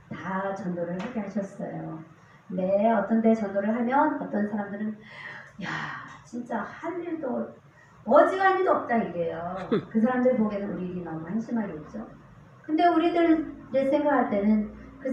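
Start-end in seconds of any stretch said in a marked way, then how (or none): 5.6-9.0 retold jeer, jumping high and loud at the end; mock scorn. Passerby scoffing at street evangelism, mock-scornful. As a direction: imitate a dismissive passerby.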